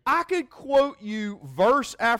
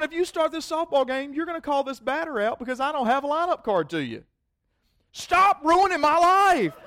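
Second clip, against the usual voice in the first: mock desperate plea; 11 semitones higher, 6 dB louder than usual. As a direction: beg him to stop, half laughing. Mock plea to umpire, laughing.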